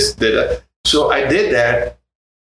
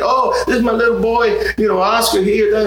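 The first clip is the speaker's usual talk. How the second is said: Sal quote, higher; 11 semitones higher than usual. Retold or imitated. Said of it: "He goes like".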